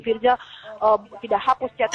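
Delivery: a hint of a panicked man; startled reply. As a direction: mimic his startled alarm. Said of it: "dia kaget kan".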